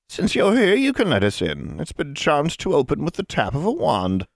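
lightly voiced scornful witch; a hint of a smug hag; condescending hag. Hag voice in reading.

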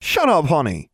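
exasperated scolding. A narrator's reading. Owner scolds screeching pet.

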